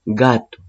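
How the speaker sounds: "gato" repetido con G dura; G sin sonido jota. Shown as a demonstration. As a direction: muestra que la G de "gato" no raspa como jota. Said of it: "¿Suena como J? No". ("gato" con G oclusiva inicial)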